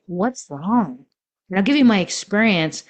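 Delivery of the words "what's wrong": caring question. Shown as a demonstration. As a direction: gently ask "What's wrong?" out of care. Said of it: "you might say".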